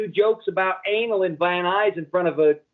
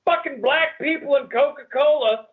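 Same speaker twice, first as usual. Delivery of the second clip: laughing mock Tony; 5 semitones higher than usual. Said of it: "Here comes Tony".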